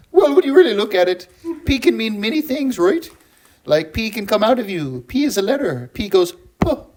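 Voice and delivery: lightly voiced lecturing professor, a bit high; comic academic explaining nonsense; Jordan Peterson. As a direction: reason it out earnestly, as a mock lecture. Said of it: "can you break down pee pee poo poo".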